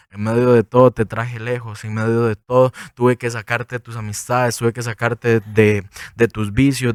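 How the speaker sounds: soft, low, slowing tender words; tender divine voice. Retold or imitated. God speaking tenderly to a lost young man. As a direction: speak softly as a loving God. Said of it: "Dios fue tan especialista que dijo".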